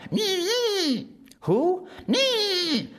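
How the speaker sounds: very high, buzzing insect voice; high whiny mosquito, eager to help; tiny mosquito voice. Acted. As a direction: squeak it like a little mosquito. Tongueless Mosquito.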